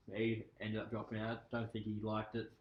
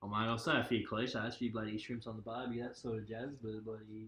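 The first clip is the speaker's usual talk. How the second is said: cliché ocker Australian accent; broad Aussie accent. Shown as a demonstration. Reeling off clichés for a friend, broad Aussie accent. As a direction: lay on the Aussie slang accent. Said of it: "Do an Aussie accent, please".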